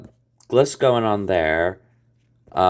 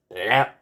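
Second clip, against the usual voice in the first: horn blep. Retold or imitated. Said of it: "The horns have to go".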